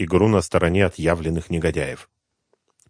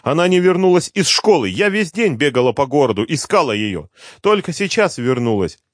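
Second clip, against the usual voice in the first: high, loud, breathless rush of worry; a terrified mother pouring it all out; mother telling her son the girl was taken, in panic; panicked mother; 10 semitones higher, 6 dB louder than usual. Acted.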